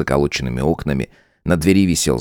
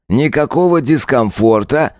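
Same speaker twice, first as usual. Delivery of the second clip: higher lightly voiced cop, rising mock concern on Никакого; sly question; 8 semitones higher than usual. Lieutenant sneering at Tanya, sly rising question. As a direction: ask it with fake concern.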